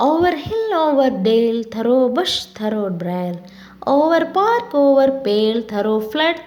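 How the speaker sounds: measured, line-by-line verse reading; poem recitation. Acted. Teacher reciting a fairy song to learners, measured poem recitation. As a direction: recite in short, evenly spaced phrases.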